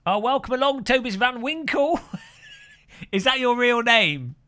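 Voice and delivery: high, loud, laughing welcome; amused excitement. Real, not acted. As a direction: greet them in delighted disbelief. Amused by a viewer's name.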